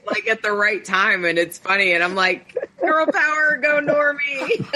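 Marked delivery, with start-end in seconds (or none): 2.8-4.7 high, drawn-out cheer breaking into laughter; giggly girl-power rallying call; playful cheer. Retold or imitated. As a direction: cheer her on in a raised, slow voice. Acting out her cheer for podcasting women.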